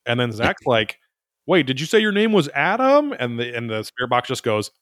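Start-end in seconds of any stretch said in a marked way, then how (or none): 1.5-3.1 startled question. Retold or imitated. Investigator startled when the spirit box names itself, asking in high disbelief. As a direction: pitch jumps high on a surprised double take.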